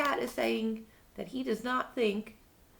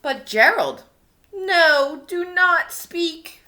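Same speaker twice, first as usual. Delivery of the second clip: urgent plea; 3 semitones higher, 8 dB louder, slower than usual. Acted. Piggy pleads with Gerald.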